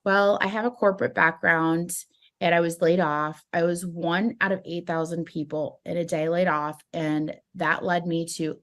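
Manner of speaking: a dull, straight-faced read of the story; straight face. Shown as a demonstration. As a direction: tell it deadpan with no energy. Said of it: "just say the story with a straight face".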